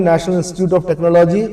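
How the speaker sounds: each word of National Institute of Technology said slowly and distinctly; slow spelled out. Shown as a demonstration. Teacher spelling out NIT's full name for students, slowly. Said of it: "NIT बोलते हैं".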